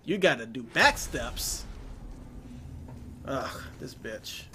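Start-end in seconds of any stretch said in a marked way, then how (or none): 3.3-4.4 exasperated whisper. Real, not acted. Muttered frustration.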